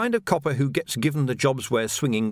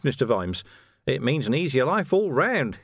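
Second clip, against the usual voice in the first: higher, sly and gleeful; gloating villain; 7 semitones higher than usual. Acted. Carcer gloating to Vimes about his release, sly and gleeful. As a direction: gloat with oily glee.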